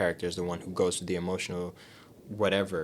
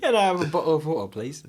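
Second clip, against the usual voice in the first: mock American accent; 5 semitones higher, 3 dB louder than usual. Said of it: "trouble with the E Rs".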